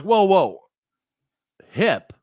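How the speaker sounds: high, loud whoas then a baffled hip; mock alarm at the plan; retold shocked interruption; alarmed disbelief. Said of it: "I'm like".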